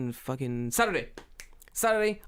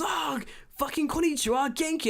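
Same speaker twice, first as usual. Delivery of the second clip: put-on old woman greeting; 12 semitones higher than usual. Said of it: "She goes".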